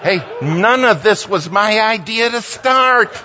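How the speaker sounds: high, slow, exasperated protest; indignant retort. Retold or imitated. Retorting to the preacher, slow and exasperated. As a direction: drag it out, fed up with him.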